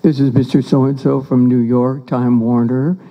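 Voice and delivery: a hint of a low-voiced company man; caller on the phone. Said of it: "The guy calls and he goes".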